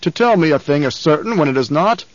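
loud, contemptuous roar; furious Baron berating his captain. Acted. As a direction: bellow at a useless officer. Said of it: "the Baron roared".

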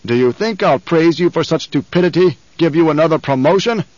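loud, contemptuous roar; furious Baron berating his captain. Acted. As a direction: bellow at a useless officer. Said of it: "the Baron roared".

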